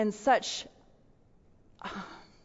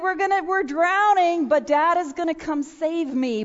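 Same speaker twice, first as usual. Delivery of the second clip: put-on child's trusting words; 4 semitones higher than usual. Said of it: "He said".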